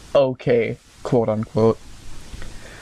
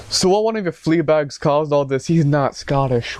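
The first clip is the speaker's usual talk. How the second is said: put-on British accent slipping into Scottish; botched British accent; 3 semitones higher than usual. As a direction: attempt British, drift into Scottish. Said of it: "What the fuck did I just do?".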